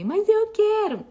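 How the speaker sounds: put-on high, slow whining kid; whiny child. Mother quoting her child's whiny demand. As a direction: whine it like a stubborn child.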